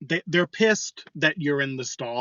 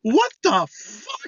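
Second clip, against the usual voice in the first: high, drawn-out incredulous squeal; retold shocked reaction; slower than usual. Man in a stall reacting to a creepy voice, high shocked disbelief. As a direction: shoot way up in disbelief. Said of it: "And I'm just".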